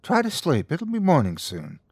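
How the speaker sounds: high, gentle soothing; reassuring. A narrator's reading. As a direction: soothe him toward sleep. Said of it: "She wanted to reassure him".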